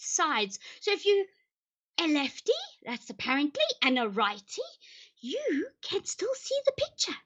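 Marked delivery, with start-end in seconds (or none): 5.2-7.2 whisper. Acted. Confiding aside.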